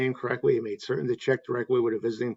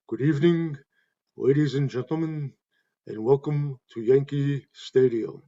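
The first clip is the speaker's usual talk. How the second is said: Bob Shepard's cadence. Retold or imitated. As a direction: stretch out the welcome like a ballpark PA voice. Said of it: "each game began with his trademark cadence".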